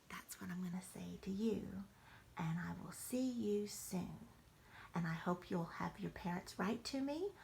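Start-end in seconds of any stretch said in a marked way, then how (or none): 0.1-4.3 hushed message to grandchildren; whispered goodbye. Real, not acted. Grandmother whispering goodnight to the grandchildren.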